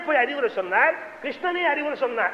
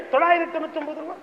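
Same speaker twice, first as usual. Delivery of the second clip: rapid haggling; 5 semitones higher, much faster than usual. Retold or imitated. Haggling rich man repeats offer.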